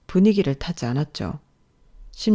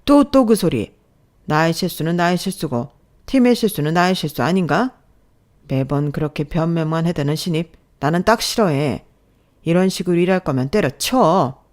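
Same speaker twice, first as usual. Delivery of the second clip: irritated reprimand, louder on the jabs; scolding boss; 4 dB louder than usual. Acted. Boss cutting off new employee's excuse, scolding. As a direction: chew out the newcomer. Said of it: "부장은 틈만 나면 저를 혼내고".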